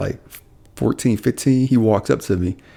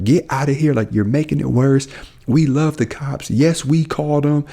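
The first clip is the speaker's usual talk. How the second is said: raised-pitch retelling of families telling her off; mild mock yell; 4 semitones higher than usual. Both families defending the police to her, mild imitated yell. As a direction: imitate a scolding crowd without really shouting. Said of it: "equally yell at her".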